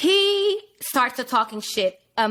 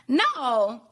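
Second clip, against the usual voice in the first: higher-pitched mock Southern Houston accent; 4 semitones higher than usual. Date explaining his mixed drink, put-on Southern Houston accent. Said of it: "Southern Houston accent".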